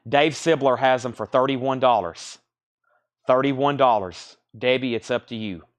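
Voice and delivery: talking with a sore tongue. Real, not acted. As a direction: sore tongue, careful speech. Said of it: "My tongue hurts".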